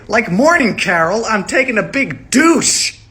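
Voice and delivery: loud boast. Acted. Loud bathroom joke.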